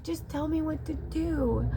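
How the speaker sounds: high, slow begging; desperate plea. Retold or imitated. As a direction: plead helplessly. Pleading with her dog.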